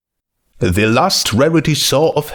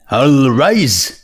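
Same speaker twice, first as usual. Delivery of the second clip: bailiff shouting; 4 semitones higher than usual. Acted. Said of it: "the bailiff shouted".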